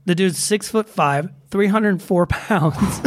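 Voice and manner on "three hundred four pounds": slow, laughing through the numbers; can't keep a straight face on the weight. Real, not acted. Laughing over the lineman's size.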